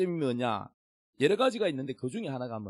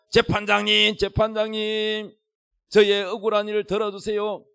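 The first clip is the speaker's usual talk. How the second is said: pleading widow; 4 semitones higher, 4 dB louder than usual. Acted. Wronged widow at the judge's door every morning, calling out in appeal. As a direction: call out insistently, pitched up. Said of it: "아침마다 가서 문을 두드리며".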